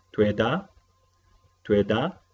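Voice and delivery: Tueda said clearly with a rising end; teacher's model pronunciation. Shown as a demonstration. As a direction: model Tueda for the class to repeat. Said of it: "vamos a pronunciar las palabras nuevas". (profesora pronuncia tueda para repetir)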